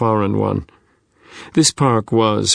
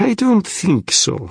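put-on higher, animated, thick Russian accent; 9 semitones higher than usual. A narrator's reading. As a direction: protest in heavily Russian-accented English. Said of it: "still in a thick Russian accent".

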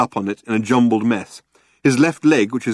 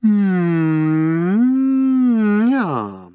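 satisfied door sigh; 11 semitones higher, 3 dB louder than usual. A narrator's reading. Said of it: "satisfied, sigh-like quality".

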